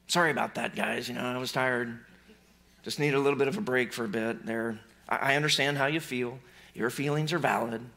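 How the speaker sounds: a hint of a laid-back apologetic Jesus; mock soothing Jesus. Preacher mocking a Jesus who apologizes, mild and soft.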